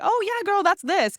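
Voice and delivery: chirpy LA barista. Retold or imitated. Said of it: "you'd be like".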